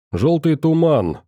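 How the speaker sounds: muffled, from under a mask; through a face mask. Acted. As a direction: speak muffled through a respirator. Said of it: "глухо ответил из-под маски Тёмный". (глухо, из-под маски)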